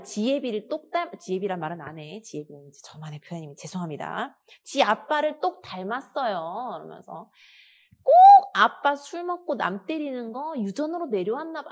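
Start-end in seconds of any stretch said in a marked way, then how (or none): 0.0-1.2 mock angry mother. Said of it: "아, 물론 이건 연기다". 4.6-6.7 mock scolding mother. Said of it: "아, 물론 이건 연기다". 8.0-11.7 mock bitter mother. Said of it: "아, 물론 이건 연기다".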